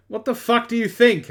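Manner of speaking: mock-furious retort; mock angry. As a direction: snap it like a bratty goth. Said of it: "I said angrily".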